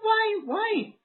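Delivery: high, wailing mock Mexican accent; hammed-up sobbing in a cartoon Mexican accent; mock crying Mexican accent. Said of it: "doing a Mexican accent".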